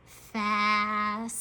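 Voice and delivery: FAST stretched, with a long hissed s; sounding out slowly. Shown as a demonstration. Teacher says it slow again, sounds drawn out. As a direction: hold each sound of FAST. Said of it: "gonna say it slow again".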